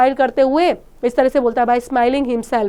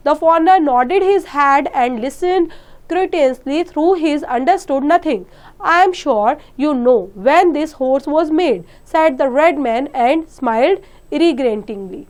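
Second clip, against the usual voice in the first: measured classroom read-aloud, each word spaced; slow, deliberate reading for the class; slow story reading; 2 semitones higher, much slower than usual. Shown as a demonstration. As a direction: read the English text slowly and clearly. Teacher reading story text aloud.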